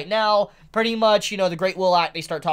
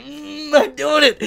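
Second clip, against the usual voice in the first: gloating villain; 10 semitones higher, 6 dB louder, slower than usual. Retold or imitated. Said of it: "He's like".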